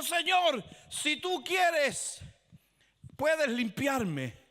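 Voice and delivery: humble leper asking to be cleaned; pleading leper. Acted. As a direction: beg for healing slowly. Leper begging Jesus for healing.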